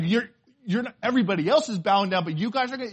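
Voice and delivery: mock angry sputtering, loud; angry king. Preacher acts out the king raging at those who won't bow, mock angry. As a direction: imitate a furious king stumbling over his words. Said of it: "I mean, he was mad".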